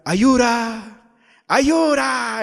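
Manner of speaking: loud, high imitation of a little girl crying out; mock child's yell. Little girl about to be punished by her father, mock yelling. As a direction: mimic a small child yelling for help. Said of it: "empezaba a gritar".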